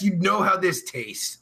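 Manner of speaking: normal talking voice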